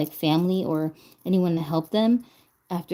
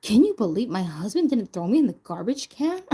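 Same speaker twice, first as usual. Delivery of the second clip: mock shock; 3 semitones higher than usual. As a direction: play at being stunned by ordinary kindness. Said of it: "I shouldn't be like".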